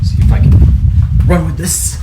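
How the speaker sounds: breathless while running; puffing as you jog; out of breath running. Real, not acted. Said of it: "quick running test".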